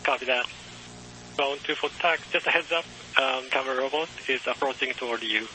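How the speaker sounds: faint, crackly radio transmission; distant voice over a patchy radio link; breaking up space radio. Real, not acted. Distant ground station over radio.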